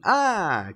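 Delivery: brief high acted scream; child's yelp. Young boy startled by a creature, high yelp. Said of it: "goes young Mikey".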